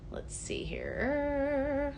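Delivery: slow whisper to herself; soft slow whisper while scanning comments; whispered musing. Real, not acted. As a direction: breathe it out while reading. Whispered to self reading.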